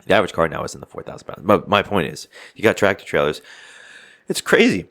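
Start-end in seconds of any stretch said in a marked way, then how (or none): 4.3-4.9 it's crazy squeaked high; high exclaim. Real, not acted. To his friend about trucks on highway, high-pitched disbelief.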